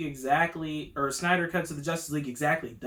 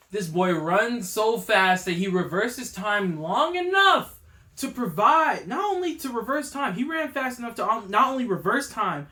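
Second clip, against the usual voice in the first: worked up; 4 semitones higher than usual. Real, not acted. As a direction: let the excitement run away with you. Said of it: "I'm sorry, I'm getting worked up".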